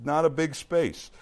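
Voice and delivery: loud, measured Bible reading; scripture reading. Acted. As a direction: read the passage out to a congregation. Reads scripture aloud to congregation.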